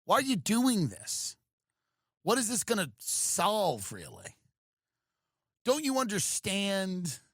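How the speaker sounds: a touch of a gentle negotiator; mock gentle talk-down. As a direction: counselor pleading with the man holding fire. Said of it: "it's kind of interesting being like".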